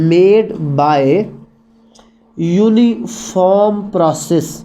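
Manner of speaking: very slow, drawn-out words; slow dictation. Shown as a demonstration. Teacher dictating the term very slowly. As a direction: stretch out uniform process for notes. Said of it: "teacher dictates term very slowly".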